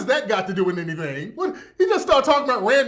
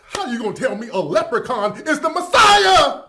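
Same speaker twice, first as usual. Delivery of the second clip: mock rant shout; 4 dB louder than usual. Mocking the rant.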